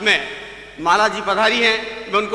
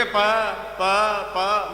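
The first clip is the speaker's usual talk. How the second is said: stammer; 3 semitones lower, much slower than usual. Acted. Man stammering at fair.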